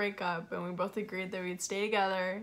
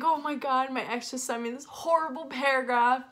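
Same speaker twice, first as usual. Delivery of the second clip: higher, louder tearful voice; retold crying; 4 semitones higher, 4 dB louder than usual. Crying to best friend about the ex's text, tearful. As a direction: push the words out through tears. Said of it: "So I'm, like, crying".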